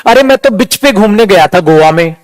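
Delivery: "बिच" with a short i where "beach" is meant; short sound mistake. Acted. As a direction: mispronounce "बिच" with a clipped vowel. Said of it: "long short में फर्क नहीं जानो". ("बिच" में गलती से छोटी इ)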